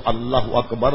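اللہ اکبر with the r of اکبر rolled too many times. Shown as a demonstration. Teacher mocking a takbir with an overrolled r. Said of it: "یہ کتنے رے بنا دیے آپ نے".

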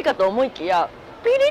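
chewing while talking; muffled by food; mouth partly full. Real, not acted. Seen 0: Face hidden until 1.9; then pressed, chewing lips and spicy wince.

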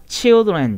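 put-on children as "chil-dren", short i and no ai. Shown as a demonstration. Teacher showing the changed vowel, children with a short i. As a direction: say children starting "chil", not "chai". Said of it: "ここはchildrenっていう音です".

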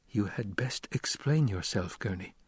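deadly quiet. Acted. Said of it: "He spoke in a deadly quiet".

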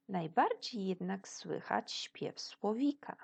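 put-on lively read-aloud for children; expressive storybook narration; story reading. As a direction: read the forest story to the class.

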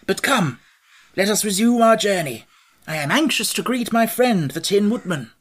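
high, loud, hearty storybook monarch; Scarecrow, jovial. A narrator's reading. Scarecrow rallying his companions onward, loud and jovial.

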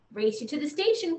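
put-on quick, lively child's challenge; a boy dares his friend to race, quick and eager; eager call. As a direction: call out fast like a racing boy. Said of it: "called the boy".

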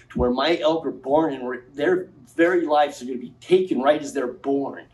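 rising, heated public rant; wild unhinged ranting. Real, not acted. Impassioned public hearing rant.

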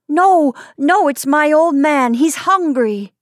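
put-on high, loud protest from a hurt child; child's distressed sobbing. A narrator's reading. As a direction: plead tearfully, lightly acted. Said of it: "sobbed Tati".

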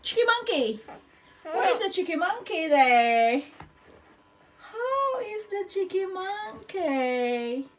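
high playful talk to a little one. Real, not acted.

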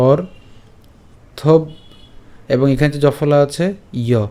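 "অর্থব" drawn apart, r first, then "ইয়"; syllable breakdown. Shown as a demonstration. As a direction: break "অর্থব" after the r, add "ইয়" separately. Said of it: "রেফকে আগে উচ্চারণ করলাম".

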